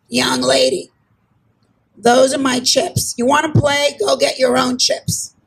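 slow, lightly voiced stern boss; bad-cop boss. Boss dismissing a young manager who protests the sale, sternly measured. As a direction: put a young upstart in her place, a hint of menace. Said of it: "He was the bad cop".

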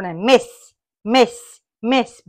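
"Messi" as one sharp syllable, "Mess"; sharp, cut short. Shown as a demonstration. Sasha calls Messi over the meat, "Messi" said as a sharp "Mess". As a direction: cut off the end of "Messi" each time. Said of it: "it becomes sharper, sharper".

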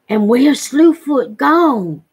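eager, slow pleading question; begging. Acted. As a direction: beg to know where the bear went. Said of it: "Gabby begged".

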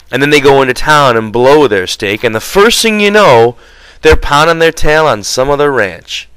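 steady, rhythmic telling of a well-worn speech; rhythmic recital. A narrator's reading. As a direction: recite it like words said a hundred times. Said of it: "George's voice became deeper. He repeated his words rhythmically".

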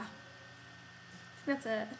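slow hushed whisper. Pretend. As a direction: breathe it out in a whisper. Wrapping up, drops to whisper.

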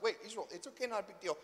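soft, low, placating voice; soothing parent. Retold or imitated. Parents calming their son in the car, placating. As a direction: gently talk someone down, keeping it hushed.

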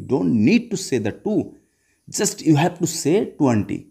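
spoken very slowly and deliberately; slow, drawn out. Shown as a demonstration. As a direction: explain it slowly for learners. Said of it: "slow English explanation". (খুব ধীরে টেনে বলা)

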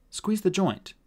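puzzled echo. Acted. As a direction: repeat the instruction, mulling it over. Artemis echoes the dwarf's instruction.

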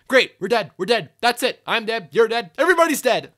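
quick, rising hysterical rattle; frantic doom. Acted. Engine telling everybody they are dead, frantic panic. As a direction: spiral into comic hysteria. Engine despairing before a crash.

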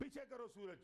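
a firm royal order; commanding tone. Retold or imitated. Prophet ordering the angels, commanding. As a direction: give the order like a king. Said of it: "بالکل اس لہجے میں قرآن پاک کہتا ہے".

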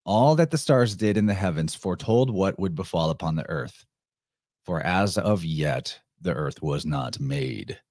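measured, solemn book reading, slowing at the end; quote read aloud. A narrator's reading. Host reading Pawnee cosmology from a book, measured reading.

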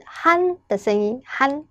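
憨 modelled slowly as a drawn-out "han"; pronunciation demo. Shown as a demonstration. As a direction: stretch 憨 out clearly for learners. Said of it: "是憨的声音".

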